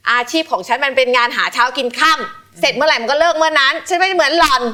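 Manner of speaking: a menacing telling-off, mock re-enacted; scary tone. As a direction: snap back at the boyfriend coldly. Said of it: "น้ำเสียงน่ากลัวมากจริง".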